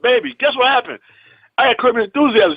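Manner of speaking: high-pitched, eager retold news; excited announcement. Husband phones his wife with audition news, excited. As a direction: share big news, re-enacting the excitement.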